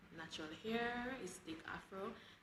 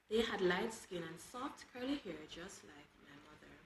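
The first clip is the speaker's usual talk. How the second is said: measured, lightly expressive read-aloud; understated storybook reading with gentle lilts; first-person story narration. A narrator's reading. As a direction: read the boy's account as a storyteller. Reads boy's first-person story.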